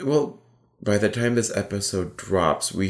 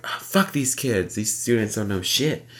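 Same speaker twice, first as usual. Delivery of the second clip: grumpy mock rant; 2 semitones higher than usual. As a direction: grumble like a fed-up teacher. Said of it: "I was like".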